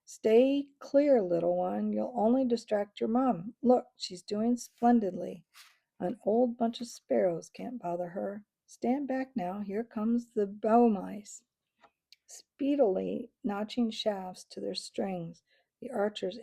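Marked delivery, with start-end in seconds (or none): 0.0-11.4 reasoning. Acted. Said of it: "Constance attempted to reason with Sam".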